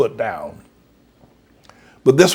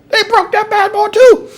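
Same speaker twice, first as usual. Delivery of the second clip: excited exclamation; 7 dB louder than usual. Real, not acted. Exultant punchline.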